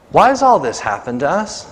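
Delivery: pressing challenge to the angel; bold questioning. Acted. Gideon challenging the angel, bold pressing question. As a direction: push back, demanding why. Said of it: "boldly looks at this angel and says".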